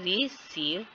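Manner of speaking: "रिसीव" split, with a held RI; slow, deliberate REE-seev for "रिसीव"; stress on first syllable. Shown as a demonstration. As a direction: stress रि, then सीव, in "रिसीव". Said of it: "इस पे stress है".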